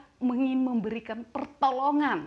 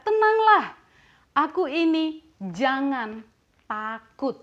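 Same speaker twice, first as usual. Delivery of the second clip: Jesus reassuring; 3 semitones higher, 6 dB louder, slower than usual. Acted. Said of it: "Yesus berkata kepada mereka".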